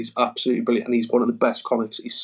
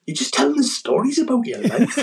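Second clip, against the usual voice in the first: much higher, laughing heckler impression; imitated heckler; 11 semitones higher than usual. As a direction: mimic the heckler high, breaking into laughter. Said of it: "He goes".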